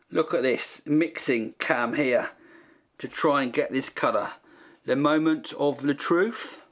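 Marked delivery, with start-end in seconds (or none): 4.9-6.6 mock French. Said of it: "Is that French?".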